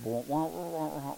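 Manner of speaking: soft muffled trombone-like wah wah, fading out; Charlie Brown teacher wah-wah. Retold or imitated. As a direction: mimic the adult voice in Peanuts. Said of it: "the Snoopy teacher showed up".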